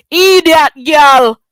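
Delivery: loud, slow, drawn-out insult; furious slow jeer; angry insult. Real, not acted. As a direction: spit it out slowly and loud. Angry rant at rival.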